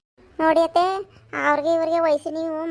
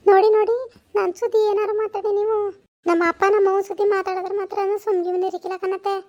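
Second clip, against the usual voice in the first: raised, indignant voice; angry warning; 5 semitones higher, 4 dB louder than usual. Acted. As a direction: warn her off, higher and louder. Daughter-in-law warns mother-in-law in quarrel. (ಕೋಪದ ಎಚ್ಚರಿಕೆ)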